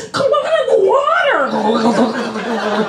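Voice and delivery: long, drawn-out singsong call; slow movie-parody call from the water; Jaws swimmer calling. Acted. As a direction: draw it out like a playful beckoning.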